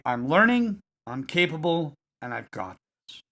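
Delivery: steady, confident affirmation; strong calm voice. Shown as a demonstration. Coach models saying the reframe in a strong calm voice. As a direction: say it like you believe it. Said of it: "say it out loud in a strong, calm voice".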